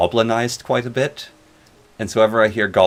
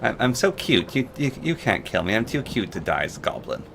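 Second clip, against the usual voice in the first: pleading goblin; 5 dB quieter than usual. Pretend. Plays pleading cute goblin.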